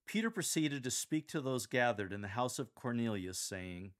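news-style scripture reading, just the facts; newsreader. Shown as a demonstration. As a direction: read it like the six o'clock news. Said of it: "Read this like you're delivering the six o'clock news".

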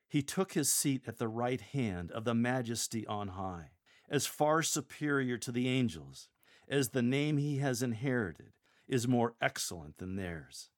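measured, mildly majestic proclamation; power and majesty. Shown as a demonstration. Lector honoring the King of the universe, mildly majestic. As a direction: proclaim it with a touch of grandeur. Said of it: "with power and majesty".

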